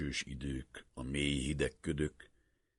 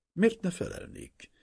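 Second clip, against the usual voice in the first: almost hostile; 3 dB louder than usual. A narrator's reading. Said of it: "kérdezte szinte ellenségesen".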